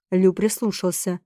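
ordinary delivery

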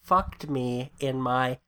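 slow, weak Doctor Evil impression; a hint of Doctor Evil, dragged out. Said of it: "it's not a very good Doctor Evil".

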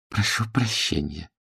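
quiet, grudging; forced apology. A narrator's reading. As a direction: squeeze it out with a forced smile. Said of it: "выжал из себя улыбку". (вымученное извинение)

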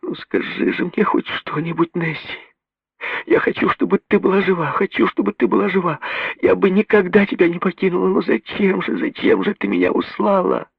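broken mumbling. A narrator's reading. Mary pleading over her dead sister, broken voice. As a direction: sob the words out, voice breaking. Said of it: "бормоча разбитым голосом".

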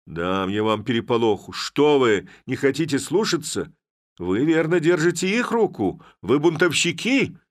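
high, loud enraged rant; furious shouting. Acted. Village head to his constables, a high furious rant. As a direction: rage at them for disobeying.

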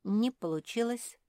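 a touch of upset; disappointed. A narrator's reading. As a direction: say it with mild dismay. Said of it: "расстроилась Наретта".

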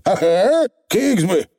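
squeaky little Scottish pixie; high, rough tiny rascal; Feegle voice. Acted.

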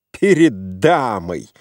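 furious cry. A narrator's reading. Mozglyakov insulting the lady, furious cry. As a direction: choke on his outrage. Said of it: "вскричал Мозгляков".

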